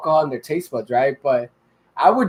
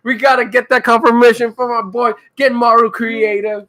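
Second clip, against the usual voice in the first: DJ voice; 5 semitones higher, 4 dB louder than usual. Acted. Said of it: "Why do you sound like a D J?".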